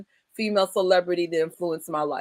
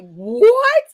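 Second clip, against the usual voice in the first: loud, high shocked What?; a squeal of disbelief; 12 semitones higher, 10 dB louder than usual. Retold or imitated. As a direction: blurt it out in disbelief. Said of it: "and I'm just like".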